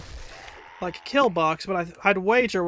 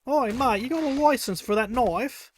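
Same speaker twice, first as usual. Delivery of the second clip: a light, higher-pitched British bobby voice; mock British accent; 4 semitones higher than usual. Teasing the British while stabbing zombies, light mock British accent. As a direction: play a cheeky British copper, lightly. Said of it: "Pretend I'm British for a second".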